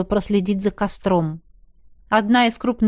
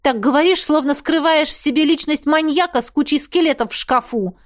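annoyed, eye-rolling retort, higher; an exasperated jab, pitched up; irritated; 7 semitones higher than usual. Acted. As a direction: toss it off in irritation. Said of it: "раздражённо закатила глаза".

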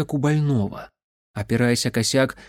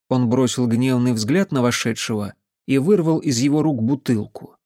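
ordinary delivery, nothing marked

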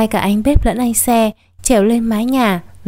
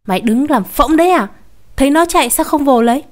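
scolding; 4 semitones higher than usual. Acted. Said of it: "hạch".

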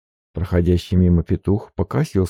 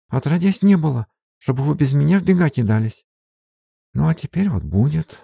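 higher, breathless servant woman fussing over mistress; flustered maid; 9 semitones higher than usual. Acted. Maid Marfa chasing her mistress, anxious and higher. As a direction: gasp it out like a worried peasant maid.

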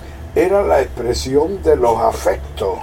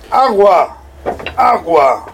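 street vendor call; 2 semitones higher, slower than usual. Retold or imitated. Feria water vendor calling.

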